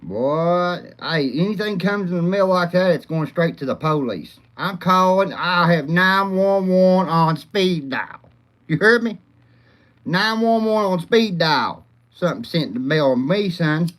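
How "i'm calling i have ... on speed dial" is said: lightly channel a blustering preacher-style rant; mild Charleston White bluster; Charleston White impression. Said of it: "I sound like old Charleston White over here".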